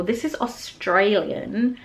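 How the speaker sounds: slow, lightly put-on Australian accent; a playful, rough attempt at an Australian accent. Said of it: "I'm sorry if I butchered that accent".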